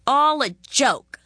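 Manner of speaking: high, loud sneer; mocking. A narrator's reading. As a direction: scoff at her. Boy mocks Margot.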